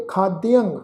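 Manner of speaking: ਖਾਦਯੰ with a nasal final ਯੰ; nasal ending. Shown as a demonstration. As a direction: end ਖਾਦਯੰ through the nose. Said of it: "ਨਾਸਿਕ ਉਚਾਰਨ ਕਰਾਂਗੇ". (ਖਾਦਯੰ ਦਾ ਨਾਸਿਕ ਉਚਾਰਨ)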